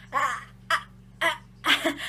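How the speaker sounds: acting lost for words, broken false starts; speechless stammer. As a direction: stutter as if too stunned to get it out. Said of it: "I couldn't speak".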